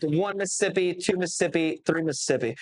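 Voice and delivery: steady, even counting rhythm; count cadence. Shown as a demonstration. To the host, showing his referee count, steady and even. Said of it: "for me, it's like".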